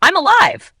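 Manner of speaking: humorous, punched-up casual reply; grinning. Shown as a demonstration. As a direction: say it with a grin, playing for a chuckle. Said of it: "You grin and say".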